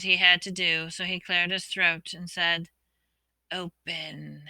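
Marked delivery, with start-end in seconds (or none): 3.5-4.4 low, faint hissing word; snake hiss. A narrator's reading. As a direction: hiss it like a serpent. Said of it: "in a low, faint hiss".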